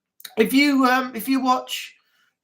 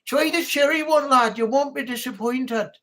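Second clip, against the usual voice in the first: Yorkshire accent; 3 semitones higher than usual. Shown as a demonstration. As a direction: coax a mate in Yorkshire style. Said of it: "like a Yorkshireman".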